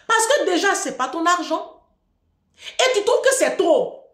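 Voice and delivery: indignant challenge. Retold or imitated. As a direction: throw it back at him, outraged.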